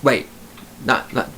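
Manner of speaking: ordinary talk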